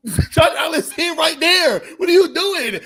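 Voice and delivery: high and loud, laughing through the words; laughing disbelief. Real, not acted. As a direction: laugh out loud at the bad throw. Laughing at the bad throw.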